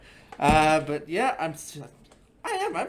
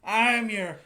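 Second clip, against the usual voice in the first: cowboy voice; 4 semitones higher, much slower than usual. Acted. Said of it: "It's my best cowboy voice".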